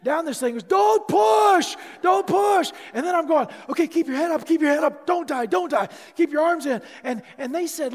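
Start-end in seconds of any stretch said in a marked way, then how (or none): 0.6-2.7 yelling in panic, high and loud; desperate yell of don't push; panicked shout. Retold or imitated. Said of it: "the last words I'm saying as they're pushing me". 3.7-6.8 frantic self-coaching. Retold or imitated. Coaching himself down the run.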